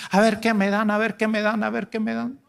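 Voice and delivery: mock expectant churchgoer. Preacher imitating people who go to church to receive, mock expectant.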